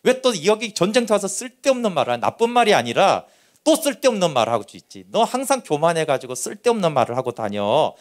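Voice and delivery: a touch of a scolding big brother; mock nag at the little brother; half-acted irritated rebuke; imitated annoyed brother. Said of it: "막 화를 내는 거예요".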